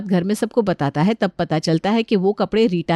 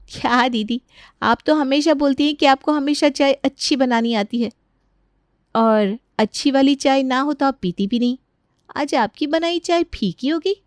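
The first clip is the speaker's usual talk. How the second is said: higher-pitched mock innocence; taunting daughter-in-law; 5 semitones higher than usual. Younger sister-in-law taunting Rita about her tea, mock-innocent. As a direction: needle her, rising into the question.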